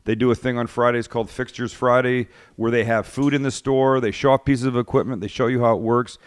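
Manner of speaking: upbeat host reading an ad; sponsor ad read. Acted. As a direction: sell it like a sponsor spot. Reads sponsor ad on show.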